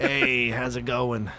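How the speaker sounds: put-on old Brooklyn accent, raspy smoker voice. A player voices a cockroach character being greeted, old Brooklyn smoker voice. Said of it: "He sounds like an old, an old Brooklyn smoker".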